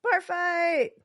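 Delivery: high, playful call-out; mock announcement. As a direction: announce the brawl with mock excitement. Calling out the brawl in story.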